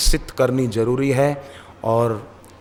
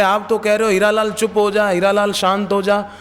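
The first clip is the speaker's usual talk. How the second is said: retold protest; 6 semitones higher than usual. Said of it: "तो बोले".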